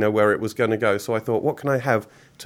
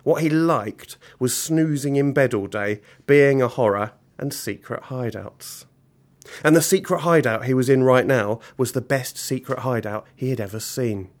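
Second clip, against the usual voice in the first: animated storyteller with measured pauses; story narration. A narrator's reading. Author reading a villain story to children, animated narration. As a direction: read aloud with deliberate comic timing. Reads story aloud to audience.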